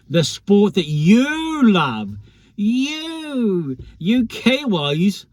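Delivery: mock the Kiwis in a clumsy New Zealand accent; poor Kiwi accent. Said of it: "that's really poor accent".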